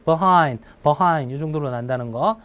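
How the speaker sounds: behind with an unstressed "buh" syllable; reduced vowel. Shown as a demonstration. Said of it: "강세 없을 때 얘가 어나 으로 바뀌어서".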